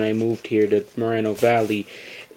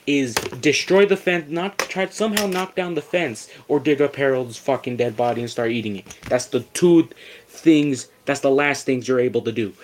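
retold yelling at dogs; 2 semitones higher than usual. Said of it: "I yell at them".

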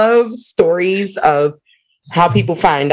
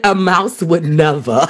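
mock sass; 3 semitones lower than usual. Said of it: "I like how you said".

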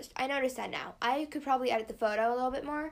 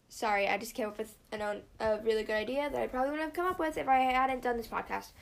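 talking between sips of iced tea; just took a sip, words after a drink; while sipping a drink. Real, not acted. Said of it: "sorry, I am drinking my iced tea".

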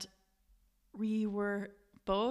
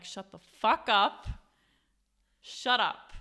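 urgent hush; 2 semitones higher, 8 dB louder, slower than usual. Retold or imitated. Terrified, silencing friend at gunpoint.

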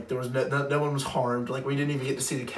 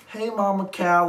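higher, playful call to a cow; imitated calling out; 6 semitones higher, 3 dB louder than usual. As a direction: mimic a friend calling an animal.

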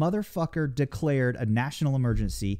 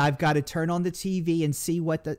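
put-on New York old lady accent; 3 semitones higher than usual. Friends ask for the New York old lady accent, lightly done. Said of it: "you have to do it in the accent".

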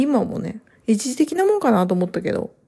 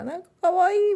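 cooing; 11 semitones higher than usual. Retold or imitated. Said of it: "不思議な感覚になりましたね".

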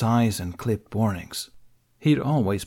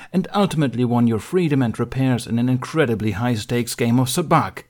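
loud, steamrolling accusation; raised voice; 3 semitones higher, 5 dB louder than usual. Acted. Mace talking over Ben's protests, loud. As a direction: drown out his protests.

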